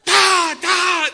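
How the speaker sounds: loud, high mimicked clap, two planks slapping; loud ta ta clap noise; loud clap imitation. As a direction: smack it out like boards hitting. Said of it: "traen dos tablas en las manos".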